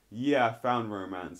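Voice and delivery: imitated knowing, suggestive answer; hint that it means the listener. Imitating him hinting she is his romance, suggestive. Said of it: "he says it in a very suggestive way".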